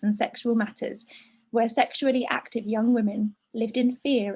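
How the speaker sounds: measured, understated reading voice; letter read aloud. A narrator's reading. Presenter reading a letter to hormones, measured. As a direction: read it evenly, as a written letter.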